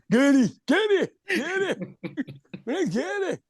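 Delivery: a lightly voiced Scottish accent, high and laughing; mock Scottish accent trying out the name; imitating a Scottish Gary. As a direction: say Gary the Scottish way, tongue in cheek. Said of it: "in a Scottish accent".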